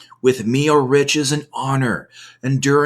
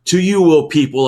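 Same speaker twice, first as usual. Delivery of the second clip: raised, higher calling voice; crying aloud; 5 semitones higher, 5 dB louder, faster than usual. A narrator's reading. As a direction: call out to the crowd. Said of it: "to the entrance she cries aloud".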